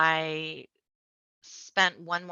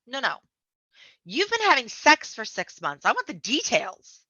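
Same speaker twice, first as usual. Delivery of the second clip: higher and louder, pushing for details; eager friend; 6 semitones higher, 5 dB louder than usual. Retold or imitated. Friend demanding gossip, eager, higher and louder. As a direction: playfully demand the story. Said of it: "And she's like".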